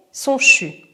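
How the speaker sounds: breathy chu sound; chu exhale. Shown as a demonstration. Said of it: "Expire couleur fumée".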